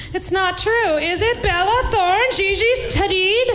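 high, slow fretful dog lady; mock dog lady. Dog lady waking at night, high fretful pleading.

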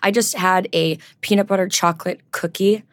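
chewing while talking; mouth full. Real, not acted. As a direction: talk around a bite. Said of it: "talk with my mouth full".

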